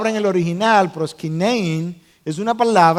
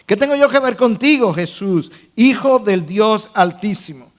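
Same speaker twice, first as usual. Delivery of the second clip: quick, raised opening cry; mild retold shout. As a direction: cry it out to Jesus, without full shouting. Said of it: "gritó a gran voz".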